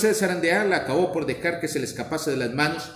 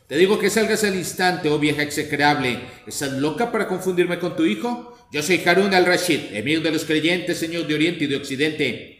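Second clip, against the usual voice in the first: indignant exclamation. Acted. Abul Hassan orders his mother out, indignant. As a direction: drive the old woman out with royal fury. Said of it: "exclamó".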